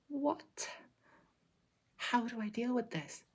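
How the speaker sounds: high-pitched, bewildered mock panic; panicking monk. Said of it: "make the monk panic".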